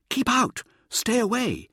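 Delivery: high, loud warning cry; warning shout. A narrator's reading. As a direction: bark it out like a ward against evil. Mirza voicing the statues' warning.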